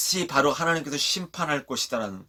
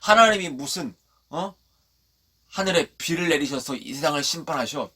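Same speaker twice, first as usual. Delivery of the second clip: imitating scornful doubters; mocking. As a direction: jeer in mock disbelief. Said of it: "조롱했죠".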